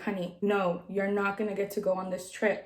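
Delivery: softened, kindly nurse voice; imitated gentle letdown. Nurse telling patient she can't travel, soft and gentle. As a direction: let them down gently and quietly.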